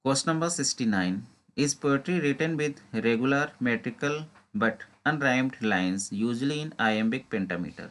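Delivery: slow, deliberate reading of an exam question. Acted. Teacher reading a quiz question to exam students, slow and deliberate. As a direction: read each word out carefully, like dictation.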